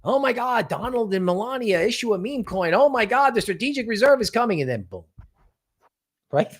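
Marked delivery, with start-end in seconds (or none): 0.0-4.6 high, excited mock gushing; mock hyped crowd. Mocking hyped crypto crowd for viewers, giddy gushing. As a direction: gush like a giddy crypto fan. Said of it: "Just like crypto".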